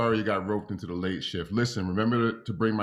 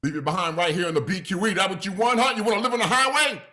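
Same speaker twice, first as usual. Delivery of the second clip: replayed parent yell; 7 semitones higher than usual. Playback, louder this time.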